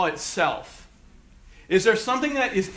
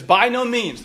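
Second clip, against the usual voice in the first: "By no means" lifted higher, firmly stressed; emphatic negation; 5 semitones higher, 3 dB louder than usual. Acted. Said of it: "That's our emphatic negation".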